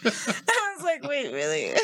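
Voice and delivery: giggling through mock surprise; laughing.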